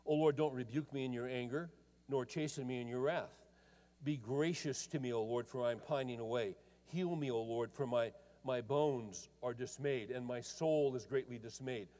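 solemn scripture read. Acted. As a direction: read the psalm with reverence. Reads psalm aloud.

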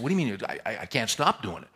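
mock-exasperated retort, easing off after the burst; exasperated protest. Patient who can't stop crying answers counselor, exasperated.

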